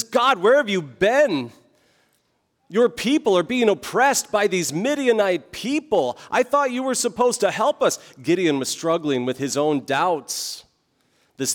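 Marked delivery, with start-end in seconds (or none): 0.0-8.0 higher-pitched, indignant challenge; mildly hammed-up accusing protest; calling God out. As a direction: demand answers in an acted complaint. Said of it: "he calls God out".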